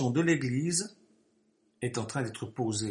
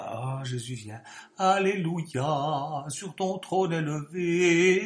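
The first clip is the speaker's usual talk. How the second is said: blissful; much slower than usual. Retold or imitated. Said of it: "certains sont béats".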